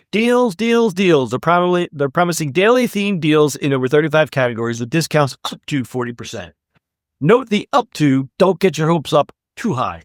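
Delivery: lively podcast news read; scripted segment read. Acted. Host presents the sale story to listeners, scripted read. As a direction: read the story out with upbeat emphasis.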